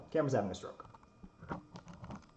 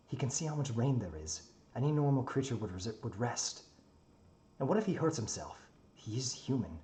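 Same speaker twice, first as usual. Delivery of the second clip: in-character story narration. A narrator's reading.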